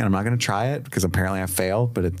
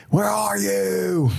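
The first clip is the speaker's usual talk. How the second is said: long, slow shout, pitched higher; calling out for dad; 10 semitones higher, much slower than usual. Retold or imitated. Jack lost in the jungle calls for his father: slow, high shout. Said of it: "wandering the jungle in a haze looking for Daddy".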